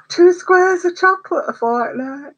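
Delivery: high, slow mock-stern voice, imitating the nurse; strict nurse's rule. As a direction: parrot her telling-off in a squeaky put-on voice. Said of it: "She'd go mad at me then".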